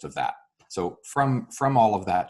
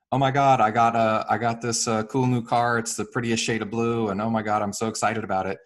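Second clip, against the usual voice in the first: breathless, louder, higher gush over a new car; gushing excitement; 3 semitones higher, 4 dB louder than usual. Retold or imitated. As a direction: play the friend bursting to share her news. Acted gushing friend, Jenny.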